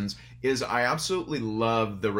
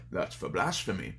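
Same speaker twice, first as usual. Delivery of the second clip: low, softer Scottish-tinged rebuke; Sean Connery impression; 4 semitones lower, 5 dB quieter than usual. Father rebuking his son's curse, low stern Connery voice. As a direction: drop low and scold like an old-school father. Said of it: "I did my Sean Connery voice".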